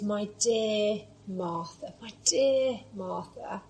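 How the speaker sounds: tender. Acted. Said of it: "you can hear the love and compassion in his voice".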